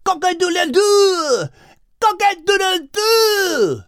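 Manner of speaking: loud, high, slow rooster crow. Acted. Rooster Jacques waking the garden, loud crowing. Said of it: "screamed Jacques".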